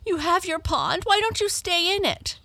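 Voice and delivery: high, put-on complaining voice; reproachful Tearful. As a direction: blame the frog in a high voice.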